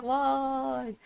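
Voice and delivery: drawn-out, high-pitched whine of a cheer; imitated class cheer. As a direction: mimic a class chorusing "why". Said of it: "it sounded like we all hated it here".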